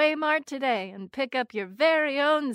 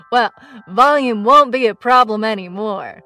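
loud, boxy megaphone sound; 2 semitones lower, 13 dB louder than usual. Acted. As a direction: shout it through a cheerleader megaphone. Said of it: "Wow, you're so loud".

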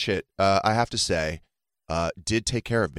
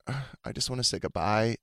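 mock feeble farewell; 6 dB quieter than usual. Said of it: "I'm like".

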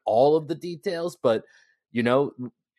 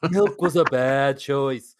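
slow, louder deadpan movie quote; Ron Burgundy; 2 semitones higher, 4 dB louder, slower than usual. Acted. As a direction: quote the line with comic gravity. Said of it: "felt like Ron Burgundy".

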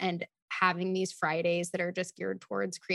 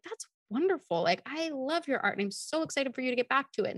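mom's voice; 6 semitones higher than usual. Retold or imitated. Mother's supportive words retold.

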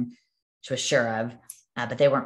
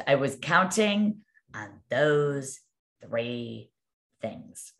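very slow, word by word, fading away at the end; retold dismay; much slower than usual. Crying agent to her manager, retold drawn-out dismay. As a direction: imitate a crushed agent spelling out her lost hopes. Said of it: "she's crying".

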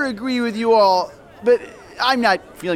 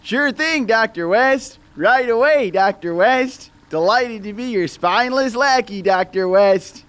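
squeaky lackey; 2 semitones higher than usual. Acted. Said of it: "a squeaky-voiced lackey".

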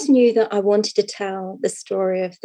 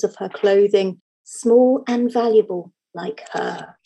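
reading a story aloud, unhurried; cozy storyteller voice; fireside storytelling. Acted. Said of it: "in my best storytelling voice".

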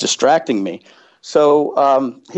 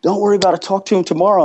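coworkers reassuring; 9 semitones higher, faster than usual. Retold or imitated. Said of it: "they're like".

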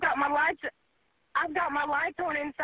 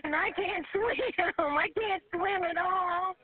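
tearful; slower than usual. Real, not acted. Trapped caller panicking.

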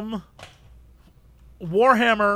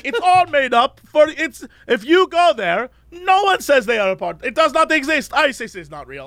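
lightly voiced ranting cab driver, higher; 4 semitones higher than usual. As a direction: imitate the driver's conspiracy rant. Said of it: "he's like".

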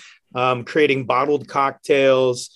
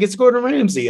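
starstruck; 9 semitones higher than usual. Retold or imitated. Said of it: "it's like".

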